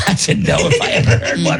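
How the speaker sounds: laughing. Real, not acted. Laughing at co-host's reluctance.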